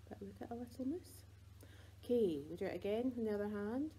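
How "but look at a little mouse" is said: whisper. Real, not acted. Aside to parents.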